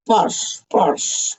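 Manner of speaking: breathy whispered posh. Pretend. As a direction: whisper the word posh twice.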